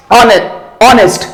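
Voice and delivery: "honest" with the h silent; slow "honest", h dropped. Shown as a demonstration. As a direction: say "honest" starting on the vowel, no h sound. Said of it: "H is silent".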